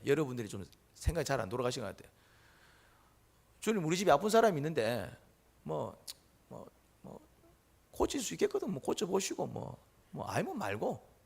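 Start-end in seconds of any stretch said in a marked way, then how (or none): 3.6-11.1 careless arrogant prayer. Shown as a demonstration. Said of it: "제가 이제 예를 드리겠습니다".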